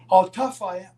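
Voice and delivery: high, loud imitated disbelief; incredulous retort. Ole answering Roddy's challenge, incredulous.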